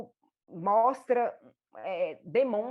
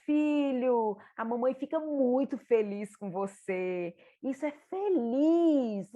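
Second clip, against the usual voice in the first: put-on higher, cheerful praise for a happy child; validating joy; 3 semitones higher, slower than usual. Shown as a demonstration. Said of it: "Mas vamos validar?". (mãe validando a alegria do filho, animada)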